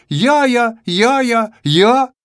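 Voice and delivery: high, proud little я-я; reading out own writing. Acted. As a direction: show off the pitiful я-я-я. What Я managed to write.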